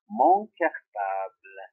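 "mon" slow and drawn out; stress on mon. Shown as a demonstration. Teacher stressing "mon" slowly for pupils. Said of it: "parce que cartable est masculin singulier".

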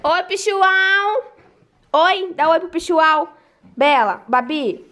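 drawn-out slow singsong to the dogs; slow cooing to the dogs; pet talk. Real, not acted. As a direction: coo at the pets, stretched out. Talking to the pets.

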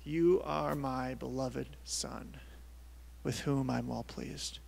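slow, measured, slightly soft; deliberate, lightly voiced words of God; solemn declaration. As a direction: spell out each word with weight. Repeats God's sentence slowly.

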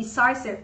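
"Decisive" repeated with "eye" in the middle; long I sound. Shown as a demonstration. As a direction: say "Decisive" as a teacher's model, de-SIGH-sive.

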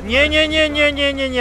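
high, loud rapid nos; panicked stop; urgent no-no-no. Real, not acted. Shouting at character in game.

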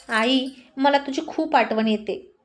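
slow, pointed pretend longing said for him to hear; deliberately staged. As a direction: fake it so he overhears. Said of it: "मुद्दाम म्हणाली".

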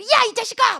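high, loud mock telling-off; acted scolding. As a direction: scold a dawdling friend. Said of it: "신앙적으로 급진적인 친구들을".

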